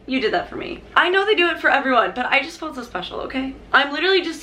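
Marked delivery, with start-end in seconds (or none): 0.1-0.8 softer, quieter repeat; touched. Retold or imitated. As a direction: say it again, softly moved. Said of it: "I was like".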